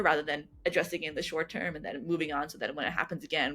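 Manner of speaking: ordinary talk, nothing marked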